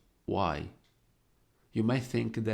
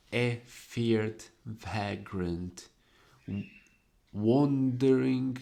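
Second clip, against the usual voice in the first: "wandering" stretched slow and much louder; slow emphatic reading; 3 dB louder, slower than usual. Shown as a demonstration. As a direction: lean into "wandering" and draw it out. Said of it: "continues the action".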